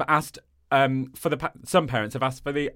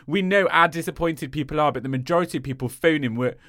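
Nottingham accent. Shown as a demonstration. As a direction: speak as a Nottingham local. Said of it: "Nottingham accent, how do I do it?".

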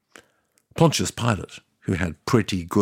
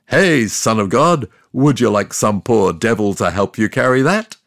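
calling out; 5 dB louder than usual. Retold or imitated. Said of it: "I cried out".

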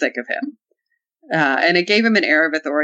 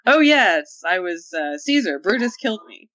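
Polonius reminiscing; slower than usual. Acted. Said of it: "Polonius is like".

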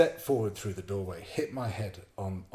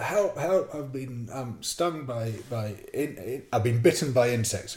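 higher, halting call for help; retold panicked shout; 4 semitones higher, 4 dB louder than usual. Stung man shouting up a ladder for help, acted panicky call. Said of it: "And I shout up".

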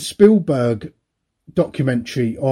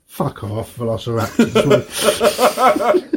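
laughing dismissal; much slower than usual. Retold or imitated. Mocking Clarke's velociraptors.

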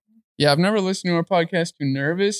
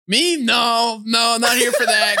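panicked denial; 5 semitones higher, slower than usual. Retold or imitated. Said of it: "The guy was like".

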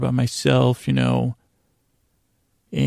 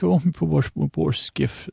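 Irish-sounding lament; 3 semitones higher than usual. Retold or imitated. Ferryman mourning his ruined skiff, mock Irish accent. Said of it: "more like an Irish guy".

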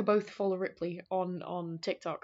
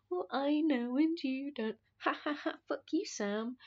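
smug taunting villain; 7 semitones higher, 3 dB quieter than usual. Retold or imitated. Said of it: "kind of vibes that they've got going on".

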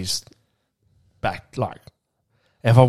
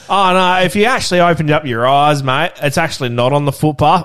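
higher, louder mocking comeback; heated retort; 5 semitones higher, 7 dB louder than usual. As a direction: tell the old man off, half laughing. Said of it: "I was like".

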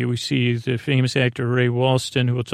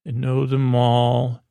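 slow, weighted delivery; quoted line, slow and deliberate; knowing, pointed. Retold or imitated. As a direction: say it slowly, like you know plenty. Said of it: "with the way he says it".

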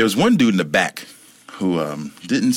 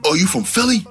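much higher, surprised friendly voice; a rapper. Retold or imitated. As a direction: imitate the rapper, suddenly high and pleased. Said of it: "He's like".

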